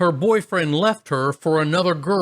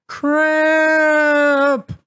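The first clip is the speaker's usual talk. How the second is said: much higher, louder frightened yelp; terrified yelp; 12 semitones higher, 5 dB louder than usual. Retold or imitated. Sister frightened by ghost.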